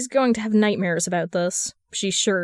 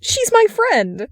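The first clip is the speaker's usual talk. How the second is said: much higher, louder and slow snarl; 12 semitones higher, 5 dB louder, slower than usual. A narrator's reading. Darling snarling at the wizard to protect Briar. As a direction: bite the words out in defence. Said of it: "Darling snarls".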